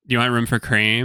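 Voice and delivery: lightly imitated Valley Girl voice; Valley Girl barista. Barista offers room for cream, lightly mocked Valley Girl. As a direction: put on a mild Valley Girl lilt. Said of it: "she's talking like this".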